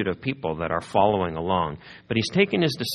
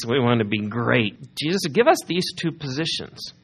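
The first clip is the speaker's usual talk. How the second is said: pushy disciples; 2 semitones higher than usual. Retold or imitated. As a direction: ask for the top seats eagerly. Disciples voiced asking Jesus.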